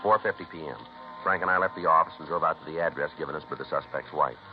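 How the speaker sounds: steady, matter-of-fact police report voice; case narration. A narrator's reading. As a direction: read the log like a detective's dry report.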